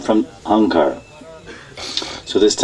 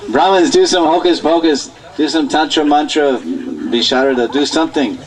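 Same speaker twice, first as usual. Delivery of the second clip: acted desperate plea; 4 semitones higher than usual. Yashoda pleads with the Brahmins.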